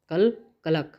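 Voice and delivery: mock cackle, "कल कलक" clucked out like a hen; hen cackle imitation. Shown as a demonstration. Teacher imitates a hen's cackle for students. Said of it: "मेरा कल लक बहुत अच्छा रहा".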